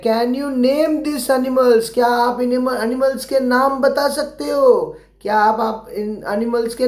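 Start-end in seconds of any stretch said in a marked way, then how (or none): 0.0-1.9 slow read-aloud question. Shown as a demonstration. Teacher reading the worksheet question to children, slowly. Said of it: "तो देखो ये पूछ रहे हैं".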